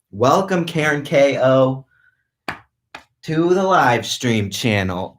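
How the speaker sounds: drawn-out, high showman welcome; announcer voice. Pretend. For the viewer who imagines sound effects, a mock announcer welcome. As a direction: welcome them like a game show host. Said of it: "mentally inserting sound effects".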